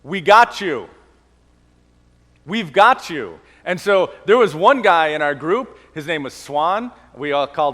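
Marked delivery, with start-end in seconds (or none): 0.0-3.4 mild shout of support; encouraging shout. Retold or imitated. Teammates on the ropes course, a mild encouraging shout. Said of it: "they encouraged us to shout out".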